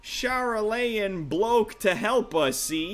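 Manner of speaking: put-on lightly done rough-edged sailor type, Brooklyn-ish accent; rough adventurer NPC. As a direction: read it as a cocky old rogue telling a tale. Rough NPC recalls the guide.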